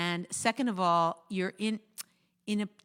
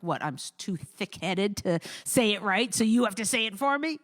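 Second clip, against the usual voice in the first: louder, affronted retort; acted wrong tone; 4 dB louder than usual. Husband hears wife's trick as criticism, mock affronted. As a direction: push it out as an offended mock challenge. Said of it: "If it's not, it comes across like".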